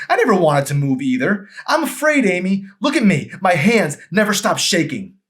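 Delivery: very high, loud, fearful confession; anguished outburst. Acted. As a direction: pour out the fear and shame.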